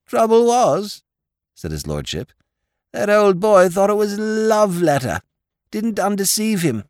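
a dim, friendly lord pleading his case; silly-ass lord. A narrator's reading. Lord Drever's voice.

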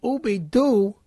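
normal talking voice

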